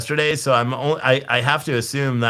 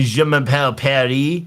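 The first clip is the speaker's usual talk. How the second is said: mock French accent. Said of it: "That's how you say Paris".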